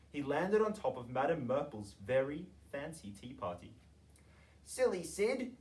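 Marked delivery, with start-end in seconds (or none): 4.7-5.6 high, shrill-voiced posh ladies scolding; screeching ladies. A narrator's reading. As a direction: screech it like fussy tea party ladies. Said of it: "screeched the ladies".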